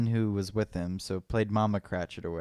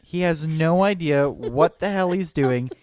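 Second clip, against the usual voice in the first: excited retelling; 5 semitones higher, 4 dB louder than usual. Real, not acted. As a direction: build it up with amused disbelief. Excited storytelling, laughing build.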